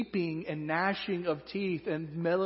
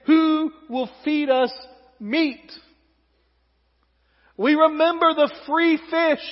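whiny complaint; 10 semitones higher, 9 dB louder, slower than usual. Acted. Israelites' complaint read aloud.

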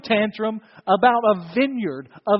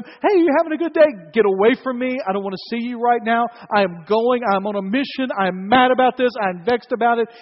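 angry sulk; 3 semitones higher, 4 dB louder than usual. Acted. Preacher acts out sulking king.

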